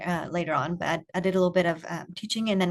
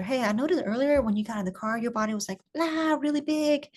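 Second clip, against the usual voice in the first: put-on higher, wondering voice noticing with the child; curious tone; 6 semitones higher than usual. Shown as a demonstration. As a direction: marvel at what his body did, pitched up. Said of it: "with that curious tone".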